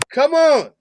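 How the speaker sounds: incredulous, high-pitched outburst; exasperated disbelief. Real, not acted. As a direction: let COME ON leap up in protest. Repeated disbelief at the clip.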